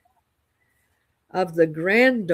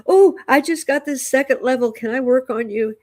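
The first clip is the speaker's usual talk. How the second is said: higher-pitched, lightly excited quote; eager retold request; 6 semitones higher, 4 dB louder than usual. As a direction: relive asking a friend, a touch of eagerness. Eagerly quoting herself to a friend.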